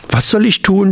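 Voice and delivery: high fearful cry from the little frog; frightened blurt. A narrator's reading. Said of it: "stieß voller Angst das Laubfröschlein hervor". (ängstlich hervorgestoßen, höher)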